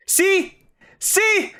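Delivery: very high, gleeful squeal; squeaky told-you. Real, not acted. Streamer squealing at chat after losing the coin flip.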